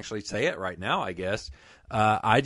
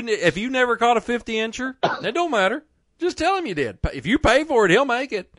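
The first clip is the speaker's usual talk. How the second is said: pitched way up, fast and eager sales push; excited pitch; 9 semitones higher than usual. Real, not acted. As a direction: hype the sponsor like a carnival barker. Hyped-up ad read for sponsor.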